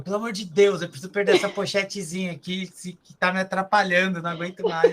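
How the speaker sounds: high, imploring imitation of a plea; mock desperation. Trainer imitating client's message about her belly, mock desperation.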